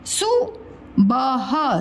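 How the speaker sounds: सुबह drawn out; very slow. Shown as a demonstration. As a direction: stretch सुबह for the class. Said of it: "teacher models word slowly".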